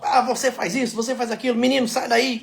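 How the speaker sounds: hammed-up barking of orders like a general; bossy general. Husband imitating his wife ordering workmen, mock bossy. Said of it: "falando meio truculento assim".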